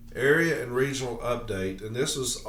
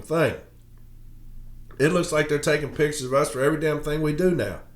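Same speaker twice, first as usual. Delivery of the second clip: angry rant; 3 semitones higher than usual. Real, not acted. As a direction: vent hard about being photographed. Angry rant about management pictures.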